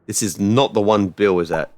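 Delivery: normal talking voice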